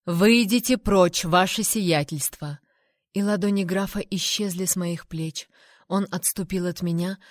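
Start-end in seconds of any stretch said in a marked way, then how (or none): 0.0-2.6 выйдите прочь, ваше сиятельство, slow and loud, word by word; each word spaced out. A narrator's reading. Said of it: "повторил, разделяя слова".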